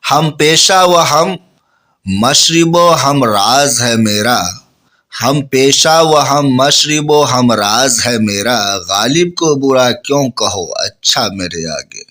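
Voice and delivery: very slow, drawn-out verse; teacher reciting Ghalib's final couplet; poem recitation. Acted. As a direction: linger on each phrase like a poet.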